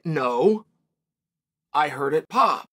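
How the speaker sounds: low, put-on voice for the fake quote; mock quote voice. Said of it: "cannot be heard saying".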